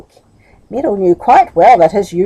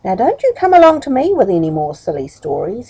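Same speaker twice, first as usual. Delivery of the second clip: stern; faster than usual. Acted. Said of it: "he said sternly".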